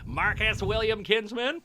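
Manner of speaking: high-pitched mother using the full name; scolding mum. Retold or imitated. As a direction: imitate a mum calling out a child in trouble. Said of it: "what she used to say when I would get in trouble".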